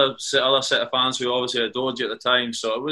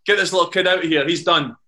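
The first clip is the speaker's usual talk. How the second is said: mildly raised, higher-pitched call to the boss; retold shout; 3 semitones higher, 3 dB louder than usual. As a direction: imitate an exasperated shout across the pitch, half-strength. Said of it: "shouted over in front of me".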